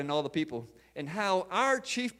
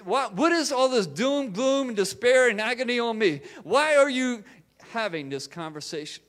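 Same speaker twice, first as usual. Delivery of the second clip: higher-pitched mild rebuke, easing at the end; reproving; 4 semitones higher than usual. Acted. Jesus questioning the disciples' doom and gloom, reproving. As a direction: challenge them with exasperated questions. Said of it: "he begins to reprove their conversation".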